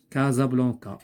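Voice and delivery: "Casablanca" with the S voiced as Z; S prononcé Z. Shown as a demonstration. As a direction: say "Casablanca" with a clear z sound after the first syllable. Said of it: "il se prononce Z". (« Casablanca » avec le S prononcé Z)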